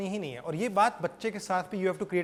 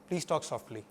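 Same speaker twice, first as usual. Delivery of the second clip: low, soft request; gentle reminder; 5 semitones lower, 6 dB quieter, much slower than usual. Shown as a demonstration. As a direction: ask softly, without any edge. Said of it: "gentle reminders". (धीमी, नरम आवाज़ में याद दिलाना)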